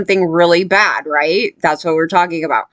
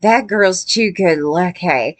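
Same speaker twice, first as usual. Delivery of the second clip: slow, drawn-out mocking quote; slowed-down mock construction guy; imitating construction guy; slower than usual. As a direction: lightly mimic a leering man, stretching words. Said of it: "He's like".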